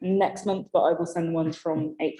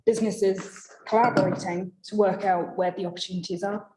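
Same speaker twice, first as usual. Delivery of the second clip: hoarse, strained, voice giving out; losing voice. Real, not acted. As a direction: push words through a failing voice. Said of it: "I'm losing my voice".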